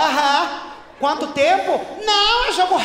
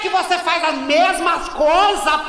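slow scolding; much slower than usual. Acted. Reprimanding repeat offender.

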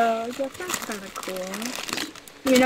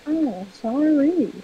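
slow, higher-pitched offended apology; huffy, stretched-out sorry; 4 semitones higher, 4 dB louder, slower than usual. Real, not acted. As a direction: draw out the apology as if affronted. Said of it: "Why do you sound so offended".

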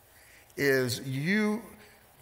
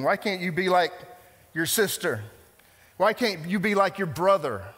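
nagging parent; 4 semitones higher, 3 dB louder than usual. Retold or imitated. Parent nagging about sibling.

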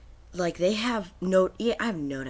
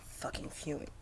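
seething whisper; 2 semitones lower, 13 dB quieter than usual. Real, not acted. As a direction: mutter it with bottled rage. Seething at broken game.

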